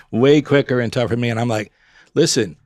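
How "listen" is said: retold warning. Warning a tougher sparring partner.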